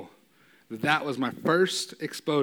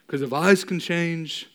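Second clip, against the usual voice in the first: slow, lightly voiced Rocky Balboa; a hint of Rocky's slow drawl; Rocky quote; slower than usual. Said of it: "I get to say in Rocky four".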